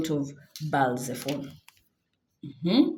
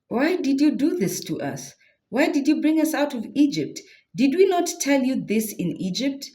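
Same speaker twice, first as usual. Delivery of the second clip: complaining Israelites; 8 semitones higher than usual. Acted. People complaining to Moses.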